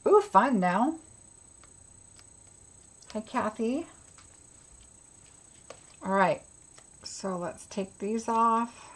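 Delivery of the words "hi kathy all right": ordinary talk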